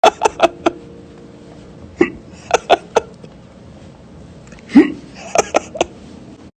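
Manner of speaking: breathy laughter, high and loud; real loud laugh; long loud laugh. Real, not acted. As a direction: burst out laughing and let it run. Long laugh after drug remark.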